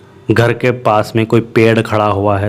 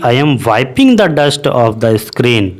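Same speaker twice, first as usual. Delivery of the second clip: very slow, every word laid out; slow model sentence; much slower than usual. Shown as a demonstration. Teacher models the English sentence slowly for students. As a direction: dictate it at half speed. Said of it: "इसलिए हमने कहा वहाँ पर कि".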